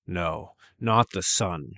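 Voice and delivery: slow, dread-filled ogre protest; the ogre refusing the dawn; a mild anguished ogre plea; ogre crying out. Acted. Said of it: "Redcap cried".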